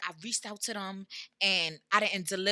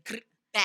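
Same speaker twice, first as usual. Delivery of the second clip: rolled "grr" into a popped "bow"; playful gunshot ad-lib; imitated gunfire. Guest hyping up the show, imitated gunfire.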